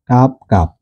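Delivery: কাপ said with an open a vowel, like kaap; correct pronunciation. Shown as a demonstration. Teacher models the right vowel in কাপ, open a sound. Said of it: "এই উচ্চারণটা হচ্ছে কাপ".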